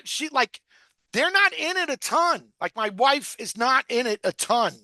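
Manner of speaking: normal talking voice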